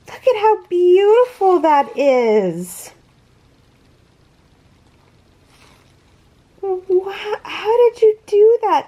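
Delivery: high-pitched, wowed admiration; real wonder, voice lifted high; amazed. Real, not acted. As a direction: marvel at the handiwork. Marvels at handmade squares.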